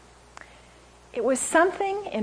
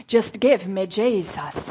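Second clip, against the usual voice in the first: Anne Graham impression; 3 semitones lower, slower than usual. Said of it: "I can do Anne Graham lots".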